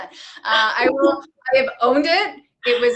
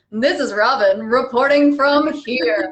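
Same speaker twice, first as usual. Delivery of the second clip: news reporter voice. Acted. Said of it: "Just like a drunk newscaster".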